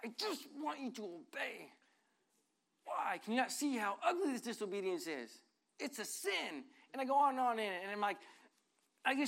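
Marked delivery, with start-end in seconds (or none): 0.0-6.6 mock exasperated scolding, pitched higher; a hint of an exasperated parent scolding; frustrated parent. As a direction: replay the frustrated lecture to the kids. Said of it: "so frustrated".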